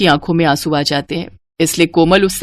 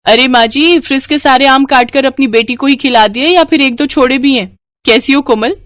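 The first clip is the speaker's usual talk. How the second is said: higher, sly mocking voice; taunting sister-in-law; 6 semitones higher than usual. Sunaina taunts mother-in-law about the mangoes, higher mocking voice. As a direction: needle the mother-in-law with fake sweetness.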